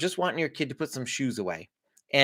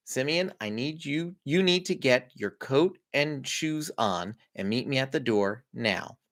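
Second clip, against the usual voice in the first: slow, measured friendly instruction; 3 dB quieter than usual. Shown as a demonstration. Parent giving a kid an instruction, friendly tone. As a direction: give a friendly but definite direction. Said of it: "say it in a friendly tone".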